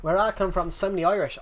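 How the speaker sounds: put-on Irish accent, lilting; quick snatch of imitation Irish. Shown as a demonstration. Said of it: "I can do an Irish accent".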